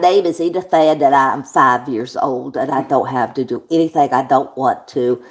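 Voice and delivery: put-on loud, slow little-girl character voice; Edith Ann. Reading aloud on request, loud put-on little-girl voice. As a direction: play a bratty five-year-old, loud and slow. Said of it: "read that in the voice".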